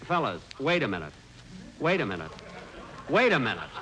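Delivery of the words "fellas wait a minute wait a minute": ordinary talk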